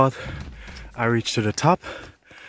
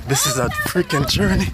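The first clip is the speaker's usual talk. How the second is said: exasperated exclaim; 5 semitones higher, 8 dB louder than usual. Real, not acted. Exhausted climb up the mountain.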